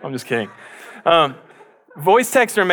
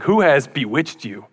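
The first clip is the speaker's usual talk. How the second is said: strong rebuke. Retold or imitated. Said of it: "He uses strong language".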